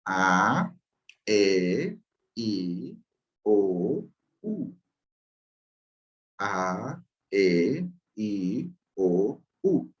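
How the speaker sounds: A E I O U sounded one by one as a review; plain vowel review. Shown as a demonstration. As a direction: run through the plain vowels as a recap. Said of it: "la primera de arriba como repaso".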